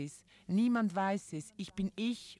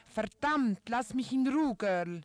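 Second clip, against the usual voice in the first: sharp, louder, higher outburst; tired mother losing patience, louder; annoyed mother; 4 semitones higher, 5 dB louder than usual. Acted. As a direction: snap at the child to leave you alone. Mother snaps at pestering daughter.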